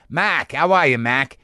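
imitated Boston-accent local; mimicked Boston heckler accent. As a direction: quiz the comedian in a Boston accent. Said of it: "every variation of that".

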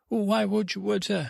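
high, faltering mock-parent voice; acted bafflement. Mother questioning the water in his room, high bafflement. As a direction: sputter the question high and unfinished.

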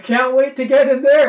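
sarcastic mock eagerness. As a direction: sell it like you're dreading it. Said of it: "looking at each other like".

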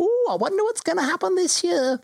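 lightly voiced excited crowd member; a hint of an eager townsperson. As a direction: gush like an eager bystander. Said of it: "Some people go".

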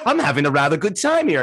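lightly imitated English accent; Ian Darke. Imitating Ian Darke at a honky tonk, English accent. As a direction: put on a mild English commentator's accent. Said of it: "He goes".

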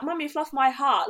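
lightly mocked pampered posh boy; posh mummy's boy. Mocking a date as a posh boy, pampered whine. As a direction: put on a touch of spoilt son. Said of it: "all posh boys".

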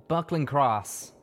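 slow and weighted, a painful memory; heavy, slow name. A narrator's reading. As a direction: drag the name out like it hurts. Troubled confession begins.

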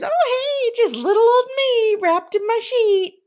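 very high, loud mocking falsetto; hammed-up little-old-me voice; Sarah Atwood. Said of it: "you always make fun of her voice".

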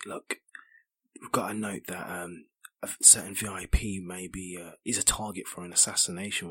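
soft, secretive whisper. Acted. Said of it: "whisper to Guy".

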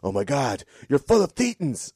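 mildly hammed-up astonished gasp of words; drawn-out mock awe at the end; mock amazement. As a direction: imitate someone amazed, rising high and loud. Acting an amazed personality tester.

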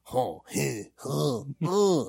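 guttural French-accent grunts; mock French noises. Shown as a demonstration. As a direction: imitate French with wordless huffs. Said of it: "if you try to do the accent".

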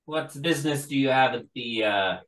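lightly voiced gruff guard; a guard challenging visitors. GM voicing guard.

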